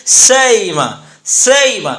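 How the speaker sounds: سئیمہ with the hamza gliding halfway to ya; bayn bayn qareeb. Shown as a demonstration. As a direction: stretch سئیمہ, neither full hamza nor full ya. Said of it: "دونوں کے درمیان ادا کرتے ہوئے ہم یوں کہیں گے". (ہمزہ اور یا کے درمیان سئیمہ)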